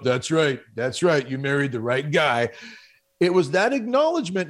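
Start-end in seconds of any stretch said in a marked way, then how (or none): 0.0-2.5 a lightly voiced proud boast; husband boasting to himself after praise, mildly smug; puffed-up pride. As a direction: chest out, smug and pleased with himself. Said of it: "my chest just puffed up".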